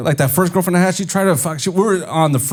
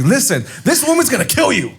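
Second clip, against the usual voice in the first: higher-pitched, emphatic warning; exasperated therapist; 5 semitones higher than usual. Retold or imitated. Therapist warning him about his girlfriend, high-pitched mock urgency. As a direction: imitate an alarmed therapist pleading. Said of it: "my therapist was like".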